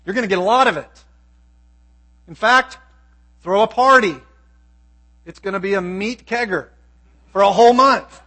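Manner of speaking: a hint of a playful God promising meat; God's party announcement. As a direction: throw it out like a party invitation. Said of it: "here he's telling Moses".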